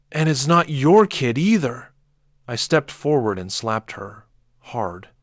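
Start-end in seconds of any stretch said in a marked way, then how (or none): 0.1-1.9 high, loud shriek. A narrator's reading. Daughter shrieking at her father. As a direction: shriek it at him. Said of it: "Izzy shrieked".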